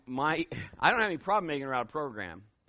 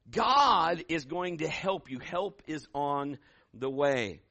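normal talking voice

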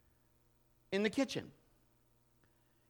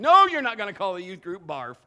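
much louder, firm refusal; stern pastor; 13 dB louder than usual. Retold or imitated. Senior pastor shutting down the youth leader's name, loudly. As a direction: put your foot down as the boss.

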